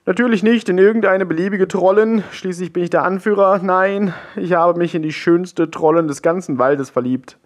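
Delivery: high, fast, overwrought troll voice; excited troll chief. A narrator's reading. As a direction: gush about his beloved. Lovesick troll chief tells story. (aufgeregter Trollhäuptling)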